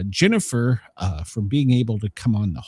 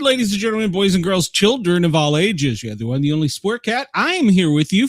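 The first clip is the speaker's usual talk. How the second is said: ringmaster; 6 semitones higher, 3 dB louder, faster than usual. Acted. Show host opens like circus.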